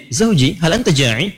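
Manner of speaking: innocent asking. Acted. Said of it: "polos kayak nanya".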